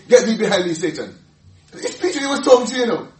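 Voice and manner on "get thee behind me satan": firm rebuke. Retold or imitated. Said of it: "Jesus had to turn to him and say".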